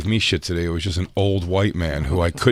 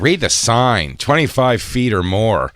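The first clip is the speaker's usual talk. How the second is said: put-on slightly raised, insistent old-man telling-off; mildly officious retold order; imitated scolding tone; 3 semitones higher, slower than usual. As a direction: mimic a neighbor citing the rule. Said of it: "Oh, his tone".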